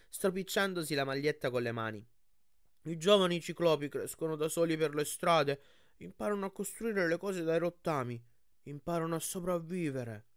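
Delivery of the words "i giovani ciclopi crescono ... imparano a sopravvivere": lightly voiced cyclops explaining his life; a hint of a guileless cyclops; earnest young cyclops. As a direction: explain simply in a slightly raised character voice.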